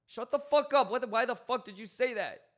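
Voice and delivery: a high, loud shout of disbelief; mock outrage. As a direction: yell it like a shocked patient. Imagined patient reacting to doctor.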